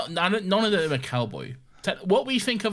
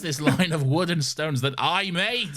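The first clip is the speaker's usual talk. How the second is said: slow, higher, hammed-up curse; mock villain lament; 5 semitones higher, slower than usual. Co-host playing the thwarted cowboy robot, slow mock curse. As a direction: curse it theatrically, half laughing.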